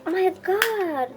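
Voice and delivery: high, loud, slow delight; excited. Real, not acted. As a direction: squeal it out with joy. Thrilled at the giant lollipop.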